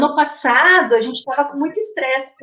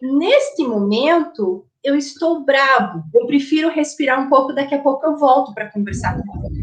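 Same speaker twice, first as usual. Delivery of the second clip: calm, measured. Shown as a demonstration. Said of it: "você apenas diz assim".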